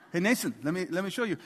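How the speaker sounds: lightly imitated French dad; touch of a French accent, eager to show. Dad calling son over, light French accent. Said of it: "he's French and he talks like that".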